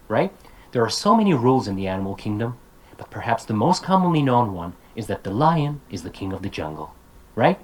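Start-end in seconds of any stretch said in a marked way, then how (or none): 0.7-6.9 "There are so many rules in the animal kingdom" quick and unbroken, "kingdom" up; one-breath chunks. Shown as a demonstration. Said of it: "say this in one breath".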